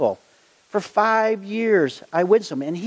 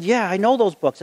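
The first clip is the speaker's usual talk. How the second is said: eager, lightly excited agreement; excited reply; 3 semitones higher than usual. Retold or imitated. Preacher answers his friend about the books, mildly excited. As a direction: answer keenly, retelling your own excitement. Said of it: "I'm getting excited".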